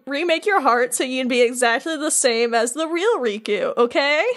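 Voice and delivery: mildly patronizing, sweetly explaining villain; condescending. Retold or imitated. Larxene explaining to Replica Riku his heart remake, condescending. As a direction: talk down to him as if to a baby. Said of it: "Talking down to him like he's a baby".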